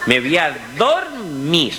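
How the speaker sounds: slow, spent, dragging the words; a man with nothing left to give; exhausted, barely getting the words out; worn out. Acted. Exhausted man after two days' hauling.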